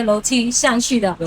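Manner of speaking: normal talking voice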